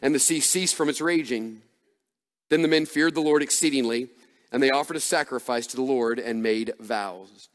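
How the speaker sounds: measured, dramatic Bible reading; scripture reading. Acted. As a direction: read the story aloud to a congregation, pausing between phrases. Resumes reading scripture aloud.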